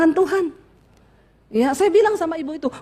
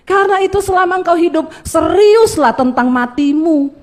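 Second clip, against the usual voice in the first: loud, emphatic sermon climax; forceful preaching; 4 dB louder than usual. Real, not acted. Preacher charging the congregation to prepare to meet their Creator, forceful preaching.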